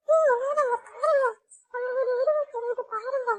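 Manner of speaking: put-on little girl spotting the ghost, high and urgent; high child voice. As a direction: point it out in a small high voice. Child pointing at ghost figure.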